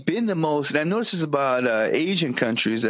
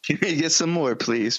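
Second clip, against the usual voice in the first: Oliver Twist plea. Retold or imitated. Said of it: "Fucking Oliver".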